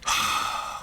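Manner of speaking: soft, voiceless exhale; heavy sigh. Retold or imitated. Upset woman about to explain herself, imitated sigh. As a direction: let out an acted, weary breath.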